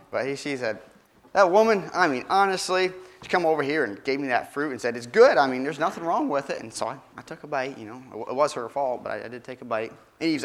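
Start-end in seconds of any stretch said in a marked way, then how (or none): 1.3-9.9 whiny excuse. Acted. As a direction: plead your innocence like a caught kid. Adam whining excuse.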